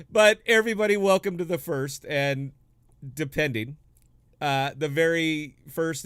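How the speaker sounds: loud, high announcer welcome; grand entrance announcement. Acted. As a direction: call it out like a showman. Grand welcome to special edition.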